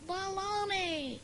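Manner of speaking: faint, slow, distant reply; canyon echo. Shown as a demonstration. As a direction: echo back from across a canyon. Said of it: "just like a Grand Canyon".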